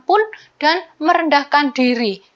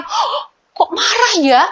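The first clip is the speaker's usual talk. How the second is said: put-on child realizing; 9 semitones higher than usual. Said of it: "terus anak-anak diingatkan".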